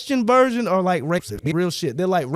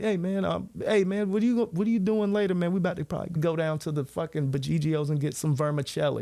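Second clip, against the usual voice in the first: soft, low-talker mumbled invitation; 5 dB quieter than usual. Acted. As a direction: imitate someone talking too low to hear. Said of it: "they talk so low".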